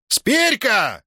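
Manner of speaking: high bark of the name. A narrator's reading. Master barking at the sleeping boy. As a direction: bark so the cups rattle. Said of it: "рявкнул тогда Иннокентий".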